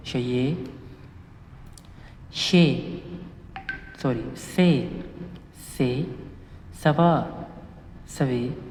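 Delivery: सा, सौ, सो each said apart with a pause; syllable drill. Shown as a demonstration. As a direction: read the chart row slowly and clearly. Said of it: "इसी तरह अगर हम".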